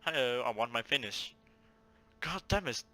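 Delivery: ordinary talk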